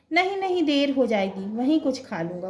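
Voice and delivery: a son in a hurry, waving off food; hasty refusal. Acted. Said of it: "Kuldeep".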